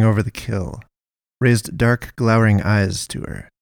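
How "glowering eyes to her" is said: usual speaking voice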